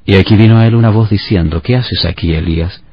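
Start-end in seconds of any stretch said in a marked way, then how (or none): 1.6-2.8 softer, hushed gentle question; gentle still voice. Retold or imitated. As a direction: ask it like a soft breeze. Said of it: "un silbo apacible y delicado". (Dios pregunta a Elías con voz suave y apacible)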